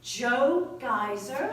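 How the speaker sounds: slow, astonished question; surprised. Acted. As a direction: drag out the name in disbelief. Astonished at gossip.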